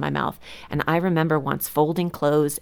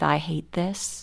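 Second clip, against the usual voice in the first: slow, softer negative thought; internal self-talk; 6 dB quieter, much slower than usual. Acted. Mom's words laced with negative self-talk, slow and soft. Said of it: "internal conversation with myself".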